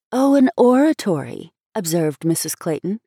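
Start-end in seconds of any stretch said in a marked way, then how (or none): 0.1-1.5 repressing a smile. A narrator's reading. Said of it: "trying to repress a smile".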